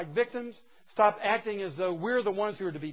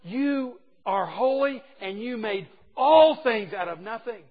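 exclaiming praise; 3 semitones higher, 6 dB louder, slower than usual. Retold or imitated. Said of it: "exclaiming His greatness".

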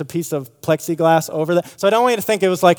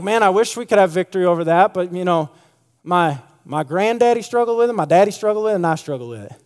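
resigned family excuse; 2 semitones higher than usual. Retold or imitated. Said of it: "You have to say it just like that too".

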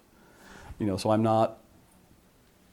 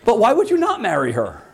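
laughing mock question; 11 semitones higher, 6 dB louder than usual. Mocking a questioner's reply.

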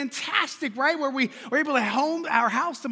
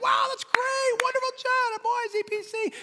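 mock praise; 13 semitones higher than usual. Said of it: "And that's just like".

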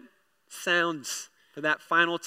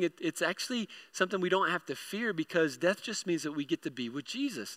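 soft, careful explanation; smoothing it over; 5 dB quieter than usual. Retold or imitated. Dad explains death to six-year-old, gently smoothing it over. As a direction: ease a child into hard news, softly. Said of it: "I'm kind of smoothing this".

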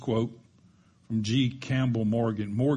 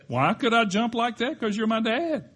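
put-on calm boy again; 11 semitones higher, 5 dB louder than usual. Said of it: "the boy".

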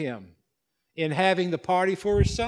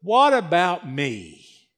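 whiny self-pity; slower than usual. Acted. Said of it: "He had a bad case of".

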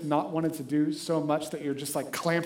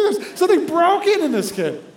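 louder, higher, with a laugh; laughing repeat; 10 semitones higher, 7 dB louder than usual. Real, not acted. Preacher repeating the line about his son to the congregation, laughing. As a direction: laugh it out in disbelief. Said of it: "Can we return him or something".

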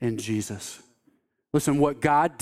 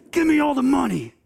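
robber's shout; 10 semitones higher than usual. Retold or imitated. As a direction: bark the demand like a robber. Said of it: "he's yelling at this little girl".

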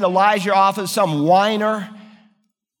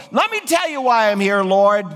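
a mildly higher, aggrieved prophet pleading his case; Elijah complaining; 3 semitones higher than usual. Acted. Preacher voices Elijah protesting to God, mildly aggrieved. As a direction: pour out a weary complaint to the Lord. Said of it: "He said".

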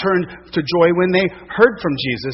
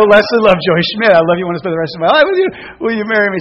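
louder, rushed repeat proposal; proposing again; 2 semitones higher, 6 dB louder, faster than usual. Retold or imitated. Asking again, louder, faster.

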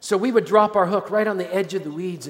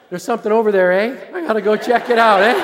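put-on Canadian accent; 5 dB louder than usual. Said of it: "Except it's in Manitoba".

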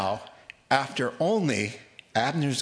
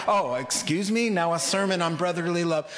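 angry sarcasm; 6 semitones higher than usual. Pretend. Preacher mocking the tribes' sermon, sarcastic and laughing. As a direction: scoff at their sermon, half laughing. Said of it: "I'm getting angry reading this, going".

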